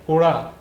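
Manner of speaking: उड़ा said whole, with a flapped ड़; blended word. Shown as a demonstration. Teacher blends syllables into a word for pupils. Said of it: "अब आप इसे पढ़िए".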